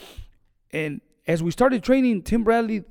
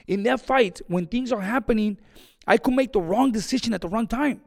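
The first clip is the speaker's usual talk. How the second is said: raised, higher, louder retold lecture; firm insistence; 5 semitones higher, 4 dB louder than usual. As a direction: lay down the law to your fighter, voice up. Coach firmly refusing his fighter.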